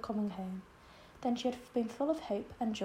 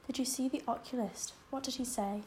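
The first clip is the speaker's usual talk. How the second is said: anxious; 2 semitones higher than usual. Acted. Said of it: "asked Anne anxiously".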